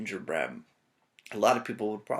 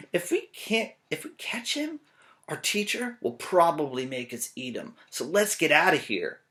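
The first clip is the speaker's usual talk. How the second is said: put-on little boy voice; 5 semitones higher than usual. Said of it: "A little boy ... said".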